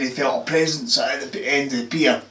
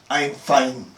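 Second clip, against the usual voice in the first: flat, even robot voice. Retold or imitated. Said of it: "She said, in a robot voice".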